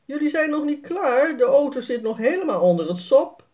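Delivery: put-on dad calling to the kids, hurried. A narrator's reading. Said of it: "roept Jaspers vader".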